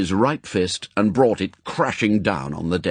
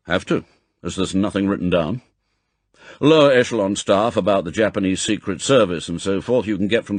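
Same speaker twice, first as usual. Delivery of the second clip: fast, firm briefing; M, brisk chief; 4 dB louder than usual. Acted. Chief briefs agent on new posting, brisk and firm. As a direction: rattle off the orders. M continues.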